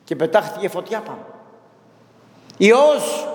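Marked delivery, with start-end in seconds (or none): 2.6-3.3 loud, high cry of Υιός; a proclaiming shout of Υιός. A narrator's reading. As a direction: call it out in triumph. Saint shouts each divine name.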